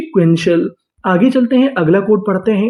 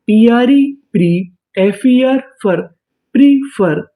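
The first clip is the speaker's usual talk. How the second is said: slow sounding out; slower than usual. Shown as a demonstration.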